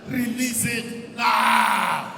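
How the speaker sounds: very slow, long drawn-out command; prayer decree. Shown as a demonstration. Preacher shows the congregation how to decree, drawn out. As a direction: stretch out the last word as a decree. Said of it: "go back to your place and say".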